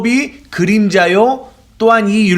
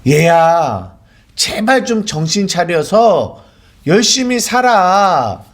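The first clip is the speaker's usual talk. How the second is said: pleading parent; slower than usual. Retold or imitated. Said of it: "라는 의도가 담겨 있어요".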